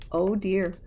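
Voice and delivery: gasp, then worry. Real, not acted.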